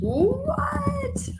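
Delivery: high squealed what; surprised. Real, not acted. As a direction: squeak it in disbelief. Surprised by the Barbies.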